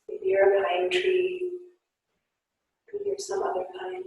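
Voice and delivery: guided yoga instruction. Acted. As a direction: gently guide the class through poses. Guided yoga class cues.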